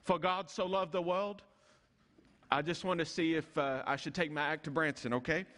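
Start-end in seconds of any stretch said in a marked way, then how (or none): 0.0-1.4 put-on lightly done North Carolina southern accent; a quick hint of a Southern preacher's North Carolina accent; Billy Graham southern accent. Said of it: "that southern North Carolina accent".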